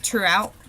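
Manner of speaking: "throughout" ending in a glottal stop. Shown as a demonstration. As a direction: swallow the final t of "throughout". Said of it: "we've got that glottal stop".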